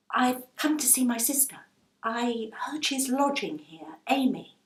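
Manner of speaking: put-on earnest, hopeful young woman asking; a hint of an anxious girl; young Rose. Rose asks the landlady.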